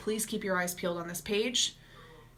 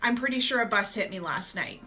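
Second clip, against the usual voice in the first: laughing groggy complaint; 2 semitones lower than usual. Retold or imitated. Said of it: "you're like".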